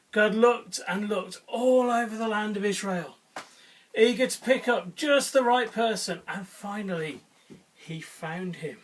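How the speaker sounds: expressive, measured storytelling; children's story reading. A narrator's reading. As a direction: tell it to listening children with clear emphasis.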